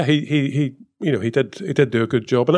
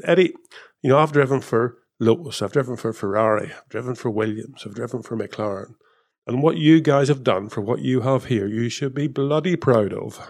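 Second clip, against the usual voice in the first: put-on Brummie accent. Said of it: "That was in his best Brummie accent".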